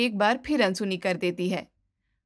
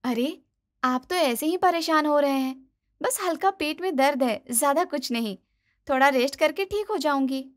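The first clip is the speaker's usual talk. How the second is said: higher, light reassuring bahu; downplaying daughter-in-law; 4 semitones higher than usual. Wife to husband, downplaying pain: high, breezy. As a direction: brush it off quickly.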